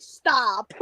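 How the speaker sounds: low, falling "stop"; mock exasperated. He reacts to her Glass Onion discovery, mock exasperation. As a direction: lightly imitate his weary disbelief, pitched well down. His reply to her late realization.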